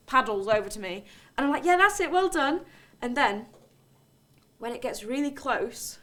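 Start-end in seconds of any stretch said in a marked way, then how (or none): 1.6-2.6 coaxing. Acted. Coaxing the swan closer.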